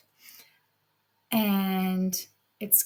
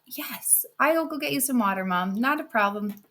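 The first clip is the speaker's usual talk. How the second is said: lightly voiced obliging daughter; eager yes, Mom; sweet sister; 3 semitones higher than usual. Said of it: "the nice sister is like".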